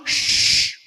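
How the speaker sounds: long exaggerated "shhh" sound; mock pronunciation hiss. Preacher mocking fussy pronunciation rules, long hissed "shhh". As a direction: overdo the "sh" as one long hiss. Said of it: "você tem que falar assim".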